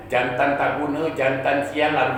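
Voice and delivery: slow, drawn-out insults; mild mock cursing. Dead woman cursing a man in his dream, mildly scolding. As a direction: curse him out slowly, without real fury. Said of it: "dimaki hamun dengan perempuan ni".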